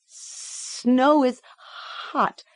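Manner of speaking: high, drawn-out command to read; Merrick's coaxing command. A narrator's reading. Doctor presses the girl to read, stern coaxing.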